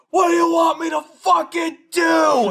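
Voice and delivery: slow, loud, high furious yell; retold angry yell. Neighbor yelling in the night, furious shout. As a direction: bellow it like the neighbor losing it. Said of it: "he's yelling at the top of his lungs".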